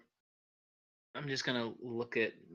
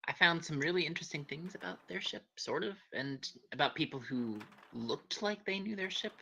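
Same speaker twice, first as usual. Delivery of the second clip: speaking up clearly to the end; clear louder voice; 4 semitones higher than usual. Real, not acted. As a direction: keep the volume up through the end. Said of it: "please don't talk so low when you finish sentences".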